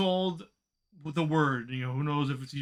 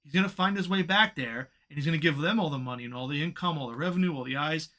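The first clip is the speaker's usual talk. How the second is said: fed-up rant, pitched up and emphatic; frustrated; 3 semitones higher than usual. Real, not acted. Fan venting at the company over losing Punk, frustrated. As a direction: vent it, pressing hard on the key words. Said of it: "It's just frustrating".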